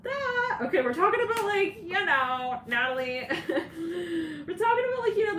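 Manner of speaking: giggling up high while talking; laughing high. Real, not acted. Reader to viewers, cracking up with high laughter. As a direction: laugh the words out, barely holding it. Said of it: "laughing through reading".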